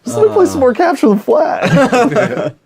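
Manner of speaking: exasperated. Retold or imitated. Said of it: "I was like".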